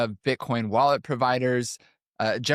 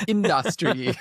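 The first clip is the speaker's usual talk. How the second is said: Trump's industry; 5 semitones higher, slower than usual. Retold or imitated. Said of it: "Just the way he says individual words".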